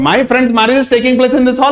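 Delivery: each word read out slowly; slow example sentence. Shown as a demonstration. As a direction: dictate the example to the class. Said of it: "अगर मैं बोलूं कि". (धीरे-धीरे पढ़ा गया उदाहरण वाक्य)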